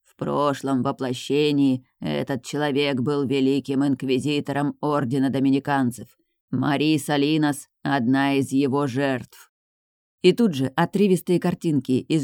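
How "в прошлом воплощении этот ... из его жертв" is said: hoarse otherworldly voice. Acted. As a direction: drag it out, rasping, from beyond. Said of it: "наконец произнёс дух".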